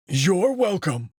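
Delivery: a drawn-out courteous goodbye; old wolf, slow. Acted. Wolf replies before leaving.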